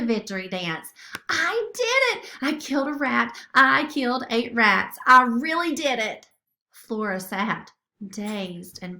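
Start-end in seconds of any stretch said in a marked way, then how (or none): 1.3-6.3 building triumphant cry, louder; elated. Acted. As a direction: shout it to the rafters. Flora celebrates first kills.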